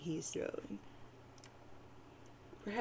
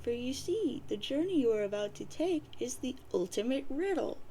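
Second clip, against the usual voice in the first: lightly voiced old nana; 4 semitones higher than usual. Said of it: "She says".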